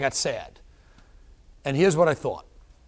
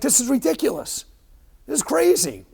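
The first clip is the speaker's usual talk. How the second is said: higher, exasperated complaint; mock angry; 10 semitones higher, 4 dB louder than usual. Patient on the table venting at dying, mock angry. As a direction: vent frustration, half laughing. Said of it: "I kinda got angry".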